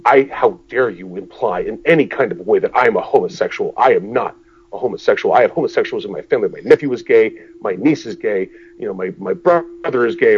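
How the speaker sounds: loud mock outrage; loud, hammed-up offended protest; retold indignant outburst. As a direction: imitate a man losing it, hammering out each denial. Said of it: "he loses his shit".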